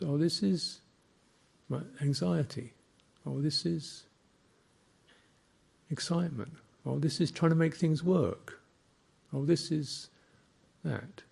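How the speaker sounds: mock dawning recognition, pausing before naming each feeling; acted realization.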